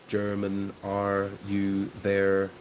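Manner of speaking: GERMAN, ARE, YOU, THERE slowly, with English front-of-mouth R; front-of-mouth sounds. Shown as a demonstration. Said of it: "It's all at the front".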